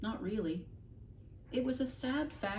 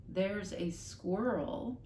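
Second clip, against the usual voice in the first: dazed slow echo; father echoing the mother, slowly; slow bewildered repeat; much slower than usual. Acted. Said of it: "repeated her father".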